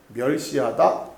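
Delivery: ordinary talk, nothing marked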